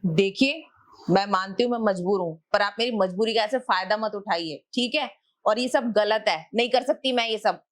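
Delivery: offended wife refusing her landlord, angrily; angry refusal. Acted. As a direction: tell him off firmly, voice rising. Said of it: "इतने गुस्से में आपको कभी देखा नहीं".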